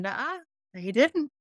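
mock contradiction from the conscience; taunting inner voice. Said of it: "that thing in me going".

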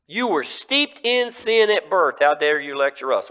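high, loud outrage; indignant rulers. Acted. Rulers scolding the healed man, outraged. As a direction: scold him from above.

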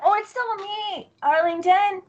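high, slow, drawn-out character voice; in-character reassurance. Acted. Renamed character telling companions it is still them, high character voice. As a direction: lift it high and stretch each phrase.

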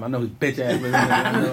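laughing. Real, not acted. Laughing mockery of old bully.

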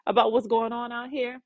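a hint of a wide-eyed younger brother; innocent David. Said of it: "David is all innocent".

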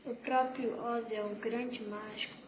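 softly read, hushed confiding line. A narrator's reading. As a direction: drop the voice, stopping short of a whisper. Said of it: "baixando a voz num sussurro".

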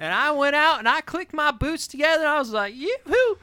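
high twangy redneck bit; hammed-up hick voice. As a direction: whoop like a happy cowboy.

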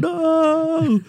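very high, loud cartoon scream; mock steamroller scream. Movie henchman facing the steamroller, hammed-up high scream. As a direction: shriek it like the Austin Powers guard. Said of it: "the steamroller going".

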